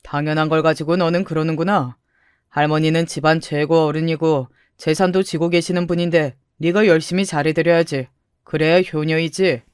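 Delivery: lightly voiced lecturing grandmother; stern grandmother. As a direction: lay down family duty, lightly in a grandmother's voice.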